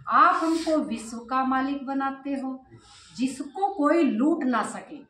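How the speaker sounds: slow, measured reading aloud; scripture reading. Acted. Teacher reads Baba's words to the class, measured scripture reading. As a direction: read out each phrase deliberately.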